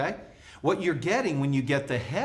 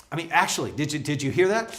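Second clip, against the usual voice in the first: doubtful; faster than usual. Shown as a demonstration. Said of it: "resist them with some doubt and kinda go".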